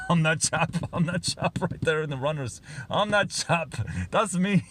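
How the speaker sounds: a clumsy mock English accent; doing a deliberately bad English accent. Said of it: "That's a really bad English accent".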